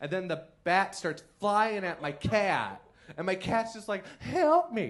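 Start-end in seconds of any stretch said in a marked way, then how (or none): 4.2-4.9 put-on high, loud cartoon kid voice crying out. Telling about a bat in the house, the speaker voices the cat in a South Park voice. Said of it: "Your cat has a South Park voice".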